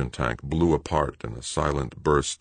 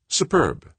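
smug commander; 12 semitones higher than usual. A narrator's reading. Brenard approving, voiced figure.

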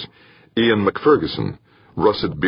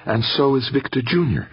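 beaming happily; 8 semitones higher than usual. A narrator's reading. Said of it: "beaming happily".

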